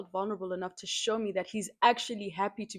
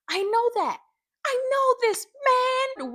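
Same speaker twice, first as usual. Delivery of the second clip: higher, louder emphatic assurance; fired-up much higher I know; 6 dB louder, slower than usual. Real, not acted. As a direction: insist you understand. Emphatic agreement.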